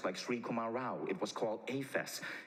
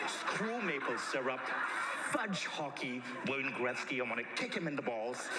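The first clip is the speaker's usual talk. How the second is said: retold pissed off; 3 semitones higher than usual. Speaker inwardly rages at all of Canada, hammed-up mock rant. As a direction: vent in comic outrage. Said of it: "I was pissed off at Canada".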